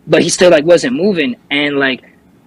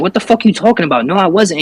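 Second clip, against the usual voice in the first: retold angry yelling; 5 semitones higher than usual. Revived man argues with the responders, mild mock yelling. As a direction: imitate indignant denial without yelling. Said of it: "like, yelling at them".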